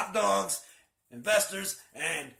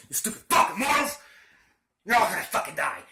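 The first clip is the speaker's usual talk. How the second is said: demon taunt; 2 semitones higher, 5 dB louder than usual. Retold or imitated. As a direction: sneer it loudly at the people behind the camera. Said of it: "Sorta like I do".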